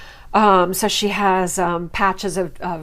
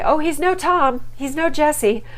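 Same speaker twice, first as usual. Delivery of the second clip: higher imitation of Darcy; 7 semitones higher than usual. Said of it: "why does Darcy have to say".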